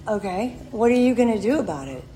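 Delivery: imitating an unbothered husband; matter-of-fact quote after a long pause; calm, mature. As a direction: put the question back to them calmly. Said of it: "He spoke to me maturely and calmly".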